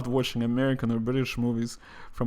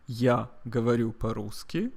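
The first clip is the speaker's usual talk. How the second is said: repeat-after-me model; 4 dB quieter than usual. Shown as a demonstration. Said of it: "Repeat after me".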